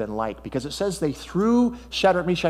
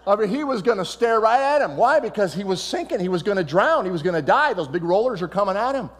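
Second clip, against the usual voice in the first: excited; 6 semitones higher than usual. Real, not acted. Preacher picturing Peter sinking, urgent and high. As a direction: push the urgency of a drowning man.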